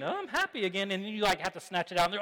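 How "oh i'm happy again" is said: put-on happy toddler. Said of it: "they're just, like, grabbing all the candy".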